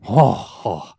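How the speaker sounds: loud, breath-filled "oh, oh"; imitated awed gasp. Actor imitating awe at a performance, exaggerated gasped "oh". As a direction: act out being impressed, mockingly. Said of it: "it's not something as an actor you go".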